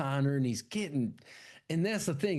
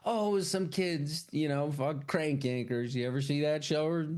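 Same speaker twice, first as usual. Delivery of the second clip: mock reassuring; 3 semitones higher than usual. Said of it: "tells him".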